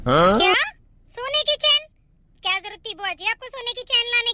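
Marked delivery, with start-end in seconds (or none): 0.1-1.9 shocked disbelief. Acted. Shocked to hear of the gold chain.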